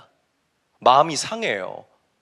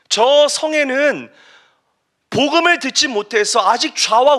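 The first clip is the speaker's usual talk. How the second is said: impassioned rebuke, mostly high and forceful; God; 8 semitones higher, 5 dB louder than usual. Acted. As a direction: reproach him with rising urgency. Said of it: "하나님이 요나에게 이렇게 말씀하세요". (간절하고 힘 있게 꾸짖는 목소리)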